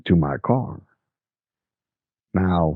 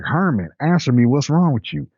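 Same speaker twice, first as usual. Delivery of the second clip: desperate mother; 6 semitones higher than usual. Retold or imitated. Mother shakes her unresponsive son.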